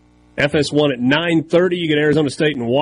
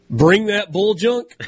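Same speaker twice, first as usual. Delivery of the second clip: wrestling promo voice; 6 semitones higher, slower than usual. Acted. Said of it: "imitating wrestling catchphrase".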